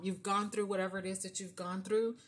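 normal talking voice

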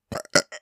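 burp. Real, not acted. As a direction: let a small burp slip out. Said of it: "sorry, I just burped".

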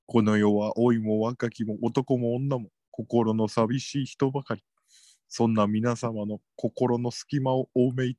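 a creepy salesman purring his pitch; sinister salesman. Acted. (不気味なセールスマンの声)

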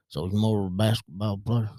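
put-on thick country accent on a nosy question; country accent impersonation. Coworker asks about the son's sport, country accent impersonation. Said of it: "I do a really good impersonation".

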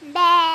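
a short mock goat bleat. Child imitates a goat on request with a short bleat. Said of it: "coba tirukan suara kambing".

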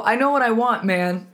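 loud, offended retort. Retold or imitated. To the guy at the club, loud and offended. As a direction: snap back at him, affronted. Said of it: "I got offended".

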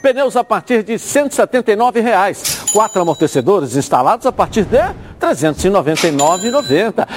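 hard sell the Christmas deals. Acted. Host reads tire shop ad.

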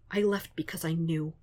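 soft, tearful half-whisper. Acted. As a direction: whisper it through tears. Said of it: "Foggy whispers in that same tearful voice".

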